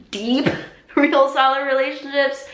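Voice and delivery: high, loud, put-on voice with a laugh; exaggerated emphasis. Playfully exaggerated repeat for emphasis.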